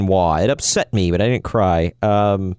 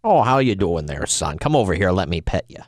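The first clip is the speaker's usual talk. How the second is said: lightly voiced lower older-man act; mock-friendly coaxing, sinking lower; put-on creepy greeting; 5 semitones lower than usual. Host playing a wrestler who wants to pet a fan, put-on creepy greeting.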